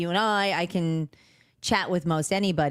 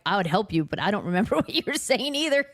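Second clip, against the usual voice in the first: laughing; 4 semitones higher, faster than usual. Retold or imitated. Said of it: "I'm like".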